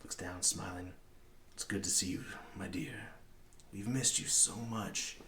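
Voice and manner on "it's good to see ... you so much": lightly voiced man, slowing at the end; a measured hint of the big man's greeting; large man. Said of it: "a large man walks up".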